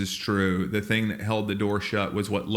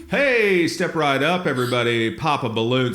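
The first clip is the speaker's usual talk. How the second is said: carnival barker; 3 semitones higher than usual. Retold or imitated. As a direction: hawk the game to passersby. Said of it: "We were literally carnival barkers".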